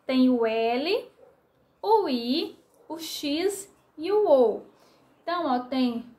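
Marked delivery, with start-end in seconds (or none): 0.1-4.6 spelling out letters. Shown as a demonstration. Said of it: "Ó, vamos contar?".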